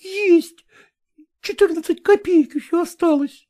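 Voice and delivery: a touch of tearfulness, high voice; tearful. A narrator's reading. Agrafena admitting her last kopecks, mildly tearful. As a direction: answer close to tears. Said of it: "слезливо отвечала Аграфена".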